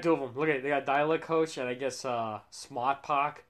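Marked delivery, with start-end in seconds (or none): 2.5-3.4 put-on slow Boston accent with dropped R's; imitated Boston drawl. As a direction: say it slowly like a Bostonian. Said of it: "With Boston accent".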